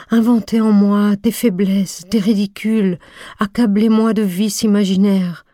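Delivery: a lover crying out what he dares not say; imagined cry. Acted. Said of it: "Il crierait, s'il osait".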